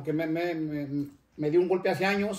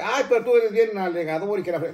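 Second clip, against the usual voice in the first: imitating a nagging wife, a little louder; retold scolding, mildly raised voice; mock scolding wife; 4 dB louder than usual. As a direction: lightly scold like an exasperated wife. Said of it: "mi esposa a veces me regaña y dice".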